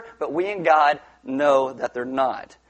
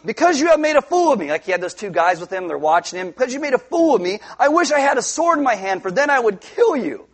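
angry Balaam; 5 semitones higher than usual. Acted. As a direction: fume at the donkey that shamed you. Balaam shouting at donkey.

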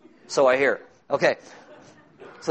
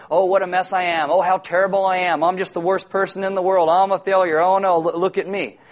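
whiny wail of self-pity, a bit louder; mock self-pity; 3 semitones higher, 4 dB louder than usual. Pastor mocks a sinner's poor-me wailing. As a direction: ham up the poor-me lament. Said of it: "That's not repentance".

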